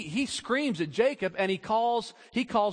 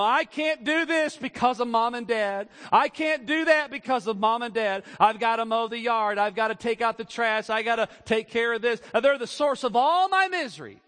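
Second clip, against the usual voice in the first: put-on higher, louder sulky teen complaint; whiny teenager; 3 semitones higher, 3 dB louder than usual. Preacher voicing a teenager blaming parents, whiny and loud.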